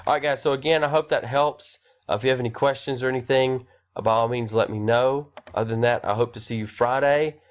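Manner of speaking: blocked nose from a cold; talking through a stuffy nose; nasally voice. Real, not acted. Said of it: "my nasally voice through here".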